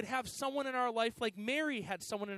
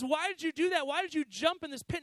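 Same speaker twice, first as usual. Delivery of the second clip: higher, incredulous retold questioning; mock exasperated disbelief; 5 semitones higher, 5 dB louder than usual. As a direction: act out demanding an explanation from a friend. Trapped man confronts friend who jumped.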